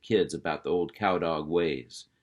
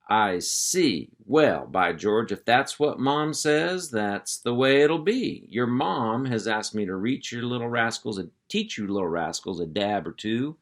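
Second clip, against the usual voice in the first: louder, higher, taking charge; hearty uncle voice; 3 semitones higher, 3 dB louder than usual. Acted. Uncle Hank calling the puppies to attention, hearty and loud. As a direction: round up the kids like a ranch boss.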